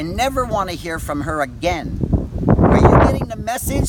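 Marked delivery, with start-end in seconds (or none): 2.6-3.9 screaming much higher and louder; furious shout. Real, not acted. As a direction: yell it at them in real rage. Furious rant at the police officers.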